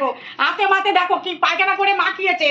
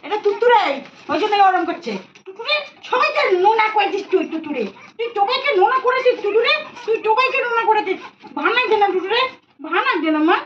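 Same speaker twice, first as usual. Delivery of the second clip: high fond scolding of a pet bird; high teasing pet talk; 6 semitones higher than usual. Real, not acted. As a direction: tease the bird in a high coo.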